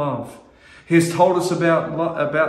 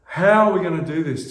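crying out to God; 3 semitones higher than usual. Retold or imitated. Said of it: "just crying out to God".

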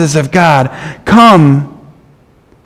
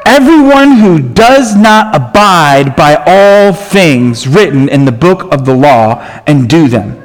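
measured, even reading of a Bible passage; scripture reading. Shown as a demonstration. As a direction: read the verse steadily, like reading from the pulpit. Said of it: "it says".

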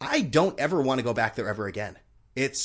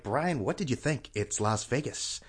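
scolding himself; 4 dB quieter, slower than usual. Retold or imitated. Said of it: "as I was saying this to myself".

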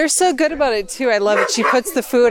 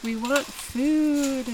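puppy voice; 3 semitones higher, 6 dB quieter, much slower than usual. Retold or imitated. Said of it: "They're like".

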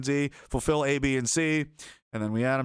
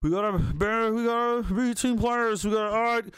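mock pep talk; 8 semitones higher than usual.

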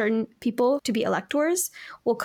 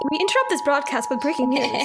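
news bulletin voice, a touch higher; old radio announcer; 4 semitones higher than usual. Pretend. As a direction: announce breaking news like a newsreader. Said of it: "Routinely, we will interrupt".

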